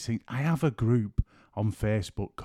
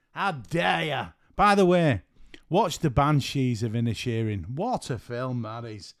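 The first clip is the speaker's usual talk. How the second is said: put-on playful Irish accent, pitched up. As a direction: put on a cheeky Irish lilt. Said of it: "apologies for the Irish accent".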